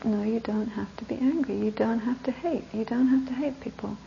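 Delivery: soft, patient repetition; calm repeating. Retold or imitated. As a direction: keep saying it gently. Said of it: "I just kept on repeating".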